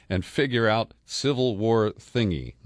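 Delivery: reading the line while breaking into laughter; host reading a friend's absurd tweet, laughing through the words. Real, not acted.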